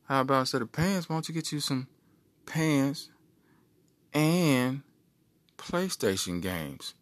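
the brain tempting him, drawn out; scheming brain. Acted.

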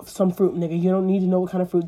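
loud quick dismissal; dismissive Moses. Acted. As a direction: wave off the question. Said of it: "He was like".

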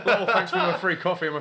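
high, loud gloating laugh and sneer; mocking ungrateful driver. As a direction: play the smug freeloader cackling at you.

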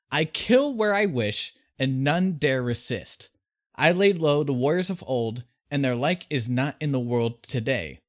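booming dragon voice, gloating. Retold or imitated. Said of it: "he gloated".

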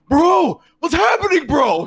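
high, yelped bro panic; hammed-up panicked shout; panicking. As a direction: cry out as everything goes wrong. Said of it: "super panicking".

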